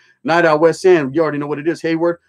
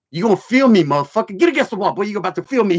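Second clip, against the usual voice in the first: imitating the guard; 3 semitones higher, faster than usual. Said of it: "I go".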